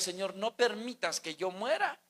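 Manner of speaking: quiet prayer. Retold or imitated. Preacher voices his wish to God as a hushed prayer. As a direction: pray it under your breath, earnestly. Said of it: "quisiera pedirle a Dios".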